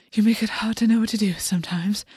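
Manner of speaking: breathy whisper. A narrator's reading. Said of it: "August breathed".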